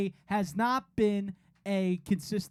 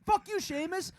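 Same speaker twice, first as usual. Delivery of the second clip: taunting yell; 9 semitones higher than usual. Retold or imitated. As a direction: jeer at him like a heckler. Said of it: "That's what somebody said in the group chat".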